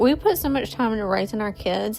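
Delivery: fighting back tears, real emotion; emotional, near tears. Real, not acted. Mom overwhelmed that her teenage son cared, crying while talking. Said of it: "I am so emotional".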